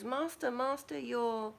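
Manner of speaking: high, urgent servant cry of master; a frantic servant alerting his master; voiced panicky servant. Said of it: "the servant looks at him and goes".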